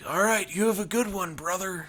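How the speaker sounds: a hint of wrestler signing off; Hulk Hogan. Redneck saying goodbye to a worker, light Hogan-style voice. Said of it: "sounds like his voice is like Hulk Hogan".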